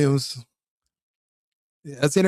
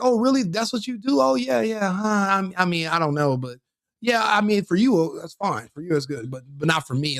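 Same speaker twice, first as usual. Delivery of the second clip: mock sweet, higher voice that turns condescending; a hammed-up fake-friendly jab, fading to dismissive; slick put-down; 3 semitones higher than usual. Women he meets teasing him with a slick, mock sweet put-down. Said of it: "like, a slick way".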